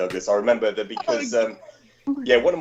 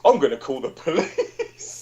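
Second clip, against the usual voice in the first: retold threat; 4 semitones higher, slower than usual. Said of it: "And he goes".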